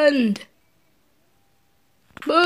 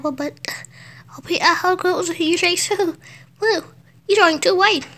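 excited character voice; 3 semitones higher than usual. Pretend. Voices game character talking to Peter.

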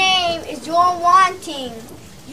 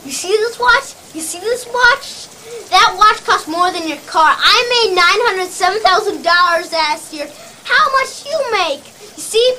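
higher-pitched, contemptuous tirade; angry berating; 3 semitones higher than usual. Acted. Sales boss putting down a salesman who challenged him, angry berating.

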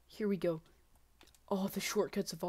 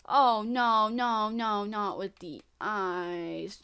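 dismayed protest; 7 dB louder, much slower than usual. Real, not acted. Player meets ice in new level.

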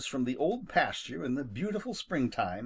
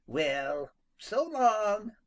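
friendly higher farewell; good-natured; 8 semitones higher, much slower than usual. Acted. Skunk parting from Peter, good-natured. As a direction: say goodbye kindly. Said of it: "replied Jimmy good-naturedly".

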